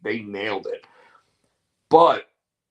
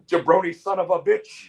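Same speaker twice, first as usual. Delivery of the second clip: lightly voiced wrestler insult, raised pitch; Iron Sheik; 5 semitones higher than usual. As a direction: toss out a mock wrestler's curse. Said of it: "I think the Iron Sheik would have said".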